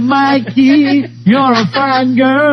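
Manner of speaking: lightly voiced old sailor, slow. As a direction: recite it like a salty sailor. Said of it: "and the sailor said".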